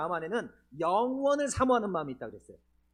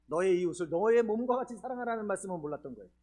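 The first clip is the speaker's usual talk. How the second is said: usual speaking voice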